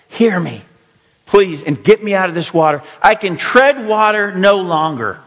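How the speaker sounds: acted pleading. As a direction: beg God for rescue, as if worn out treading water. Voices a desperate prayer to God.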